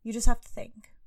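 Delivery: whispered to herself; urgent whisper to herself; talking herself through panic in a whisper; thinking to herself. A narrator's reading. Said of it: "she thought to herself".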